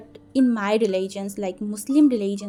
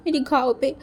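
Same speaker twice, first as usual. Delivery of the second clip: put-on lightly higher, whiny child's voice; whimpering child; 4 semitones higher than usual. Hurt boy asking Gege for ointment, light whiny child voice. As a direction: ask like a hurt little kid wanting care.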